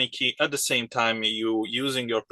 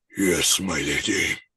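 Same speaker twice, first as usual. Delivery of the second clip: most guttural, very deep low voice; 5 semitones lower than usual. Narrating a game, the speaker voices the Karat guy answering the lady, in a very deep guttural voice. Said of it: "with the most guttural and deep voice possible".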